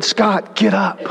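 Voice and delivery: lightly voiced God, calm and insistent. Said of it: "the voice said".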